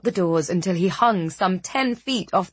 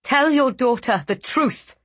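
shouting; 5 semitones higher than usual. Acted. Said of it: "she shouted".

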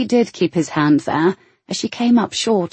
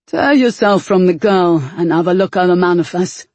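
rough growled order; growling henchman; 3 dB louder than usual. A narrator's reading. A henchman tells Devil to check the manifest, growling. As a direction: growl at the boss to get moving. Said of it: "the growl from the darkness".

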